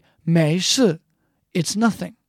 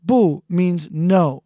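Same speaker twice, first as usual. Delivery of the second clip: slow gloss; much slower than usual. Shown as a demonstration. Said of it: "as I said before".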